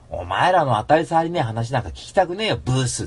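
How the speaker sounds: mildly heated mock abuse; irritated jeer. Cynical listener answering bland radio chat, mock-irritated jeer. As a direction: jeer it, drawing out the final insult. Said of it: "一番俺たちイライラしちゃう".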